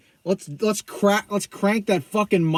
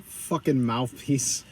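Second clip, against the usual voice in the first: Bane voice; 6 semitones lower, 4 dB quieter, much slower than usual. Retold or imitated. Mimics muffled Bane mask voice.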